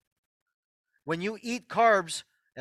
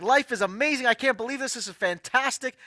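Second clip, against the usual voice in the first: elated; 5 semitones higher than usual. Retold or imitated. Imitating Charmaine on an emotional high, higher and gushing. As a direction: mimic someone on a giddy high. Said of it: "she's happier than happy".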